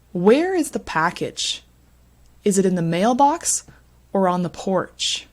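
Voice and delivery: teacher's model reading, "mailbox" rising, "porch" falling; sentence stress demo. Shown as a demonstration. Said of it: "rules about what is stressed".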